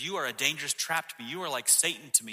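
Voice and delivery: mild, firm reprimand. Acted. Jesus reprimanding Peter right back, mildly sharp reprimand. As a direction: reprimand him right back, a touch firmly. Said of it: "Jesus reprimands Peter right back".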